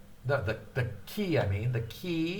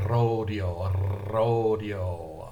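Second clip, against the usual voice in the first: "rodeo" with a Spanish tapped r, louder; 2 semitones lower, 3 dB louder, much slower than usual. Shown as a demonstration. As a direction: say "rodeo" the Spanish way with a crisp tap. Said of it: "if I'm speaking Spanish".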